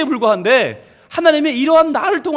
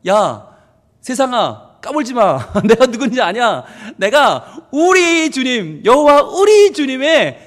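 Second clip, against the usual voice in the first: cocky, stretched-out swagger; boastful defiance; slower than usual. Acted. David telling the world whose child he is, mock-cocky boasting. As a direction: brag and dare them, drawing out the key words. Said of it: "그러면서 자랑하는 거예요".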